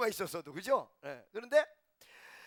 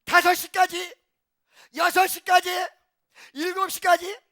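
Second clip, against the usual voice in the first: rising shout; 9 semitones higher, 12 dB louder, slower than usual. Acted. Preacher builds up counting hours.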